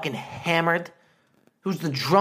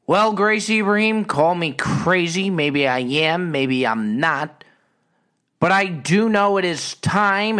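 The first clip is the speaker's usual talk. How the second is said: showman build-up; 2 semitones higher, 3 dB louder than usual. Pretend. Building to segment.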